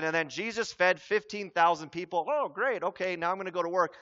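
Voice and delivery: offhand, bored recital, last line rushed; casual churchgoer who isn't listening; glib. Shown as a demonstration. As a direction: shrug it off and move on fast. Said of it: "We do this so often".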